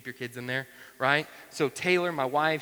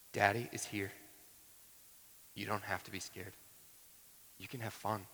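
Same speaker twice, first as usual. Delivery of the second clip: soft, lower, unhurried comfort; tender fatherly reassurance with pauses; reassuring dad; 4 semitones lower, 8 dB quieter than usual. Retold or imitated. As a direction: gently soothe a frightened child. Father reassuring frightened child in retelling.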